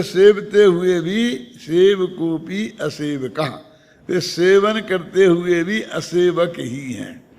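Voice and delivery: slow, drawn-out verse quotation; scripture recitation. Acted. Preacher explaining the non-enjoyer verse to listeners, slow recitation. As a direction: recite the line and its meaning unhurriedly. Quotes the verse, then translates it.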